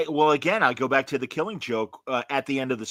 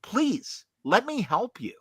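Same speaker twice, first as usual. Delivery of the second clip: a hint of Batman pleading, pitched much higher; 10 semitones higher, slower than usual. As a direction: Batman reaching out to the Joker, lightly voiced plea. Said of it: "and Batman's like".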